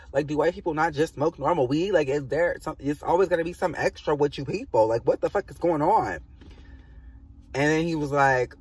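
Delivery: arguing back hard, pitch up; heated argument. Retold or imitated. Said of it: "we got into an argument".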